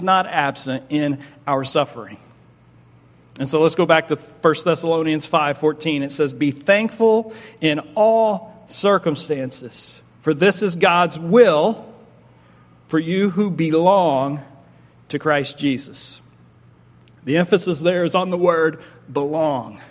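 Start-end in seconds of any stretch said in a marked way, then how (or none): 6.3-16.2 slow, solemn reading of the verse; scripture reading. Acted. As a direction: read the verse slowly and deliberately.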